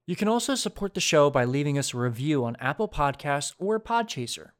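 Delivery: casual sponsor-style announcement; podcast ad read. Acted. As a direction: read the housekeeping plug. Mid-roll housekeeping ad read.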